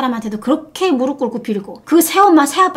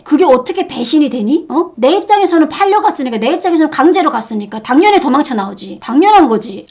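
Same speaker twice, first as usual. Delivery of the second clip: heated, emphatic self-defence; real indignation; 4 dB louder than usual. Real, not acted. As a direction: argue back angrily, pushing the voice up. Heated rebuttal of betrayal accusation. (억울하고 화나서 반박하듯이)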